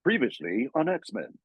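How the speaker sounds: imitated slow show-recap announcer; Norm. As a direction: draw it out like a series intro announcer. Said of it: "I swear it's him doing".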